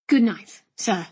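lightly voiced, restrained "Good night"; polite nephew. Nephew replying to his uncle, mildly deferential.

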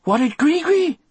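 high, loud Cajun voice; frightened Cajun man, pitched high; Cajun accent. A narrator's reading. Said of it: "spoken in that Cajun accent of his".

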